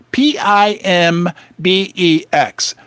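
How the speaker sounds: slow whispered letter by letter; whispered spelling. Shown as a demonstration. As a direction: spell it out in a hush. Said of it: "I love to say it".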